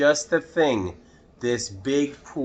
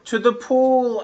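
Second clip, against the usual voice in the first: much higher, louder excited yell; 12 semitones higher, 6 dB louder than usual. Acted. Boy yelling to the firemen, high excited yell. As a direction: shout it out eagerly. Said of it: "I yelled".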